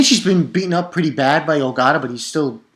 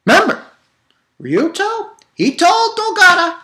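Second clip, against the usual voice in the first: high eager reminder; excited; 4 dB louder than usual. Real, not acted. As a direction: lean in, thrilled.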